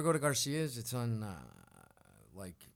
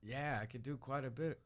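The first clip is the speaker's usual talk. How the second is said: British accent; 7 dB quieter than usual. Shown as a demonstration. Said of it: "the British one".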